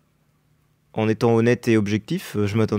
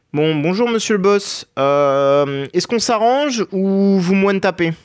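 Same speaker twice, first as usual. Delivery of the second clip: high, slow, overly polite bargaining; mock-polite greeting; 7 semitones higher, 4 dB louder, slower than usual. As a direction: sweet-talk the boss in a prissy high voice.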